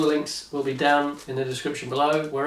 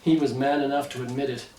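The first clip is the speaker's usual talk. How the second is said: mock-serious thriller narration; dramatic story narration. A narrator's reading. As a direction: read it like a gripping audiobook, tongue in cheek. Reads parody thriller novel aloud.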